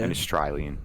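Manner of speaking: "Australian" with a put-on Aussie vowel, like "Au-stry-lian"; Australian accent. Shown as a demonstration. Host corrects himself playfully, mock Australian accent. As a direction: echo the word in mock Australian.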